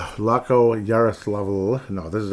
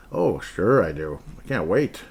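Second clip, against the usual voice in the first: sarcastic; 2 semitones lower than usual. Pretend. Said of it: "Just kidding".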